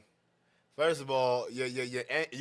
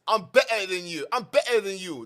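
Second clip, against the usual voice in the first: imitating an arrogant opponent; mock arrogance; 4 dB louder than usual. Host mimicking the caller's boast to expose him, mock arrogant. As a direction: parrot his boast, lightly mocking the arrogance. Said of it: "look at the arrogance".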